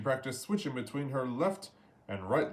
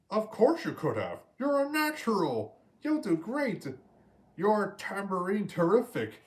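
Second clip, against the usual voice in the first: squawking praise; 8 semitones higher, 4 dB louder than usual. A narrator's reading. Scuttle cheers Ariel.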